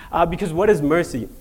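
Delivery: usual speaking voice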